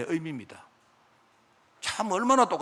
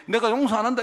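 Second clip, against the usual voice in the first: stern refusal; 6 semitones higher than usual. Acted. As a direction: declare it like an offended God. God's angry refusal voiced.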